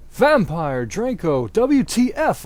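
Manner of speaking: loud, high outraged call; hammed-up outraged yell. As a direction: shout across at them. Narrator yelling at boys.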